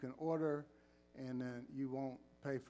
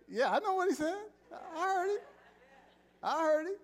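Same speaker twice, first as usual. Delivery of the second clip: much higher, laughing and loud; 6 dB louder, faster than usual. Real, not acted. Pastor laughing at a member's shouted answer, high and loud. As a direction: laugh it out delighted.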